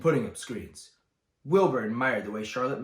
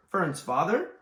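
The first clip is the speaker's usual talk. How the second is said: a touch of a sob, higher; sobbed; 6 semitones higher, 4 dB louder, slower than usual. Acted. Wilbur sobbing in disbelief to the sheep. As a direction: ask it through tears. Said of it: "sobbed Wilbur".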